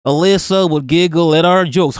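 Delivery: lightly put-on Yankee reading voice; Yankee accent. Streamer reading out a tweet about two skaters, light Yankee accent. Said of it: "Let me do a Yankee accent".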